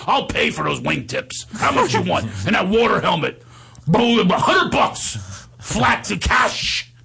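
high, drawn-out wheeler-dealer impression; hammed-up high-pitched haggling; Steiny. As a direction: stretch the last words up high. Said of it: "That's how he talks".

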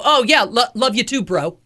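offhand reply as if to a bro; buddy-like. Retold or imitated. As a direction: brush off the endearment chummily. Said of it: "like I'm your bro".

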